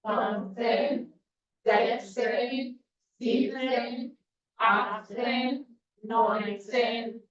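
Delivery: slow, even counting drill; counting aloud together. Shown as a demonstration. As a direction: count it out for the class. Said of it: "let's do it together".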